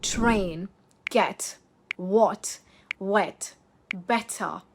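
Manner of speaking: TRAIN, GET, WHAT, WET, BETTER with released Ts; clean T. Shown as a demonstration. Teacher drilling learners, clean T with no glottal stop. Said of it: "keep your T's clean".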